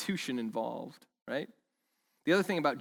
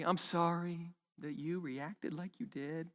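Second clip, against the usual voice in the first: insincere apology; 3 semitones higher, 7 dB quieter, slower than usual. Retold or imitated. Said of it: "When you've wronged somebody".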